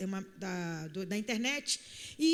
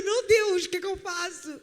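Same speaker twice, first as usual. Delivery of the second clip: panicked laugh; 5 semitones higher, 5 dB louder than usual. Retold or imitated. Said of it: "panicked aside, laughing".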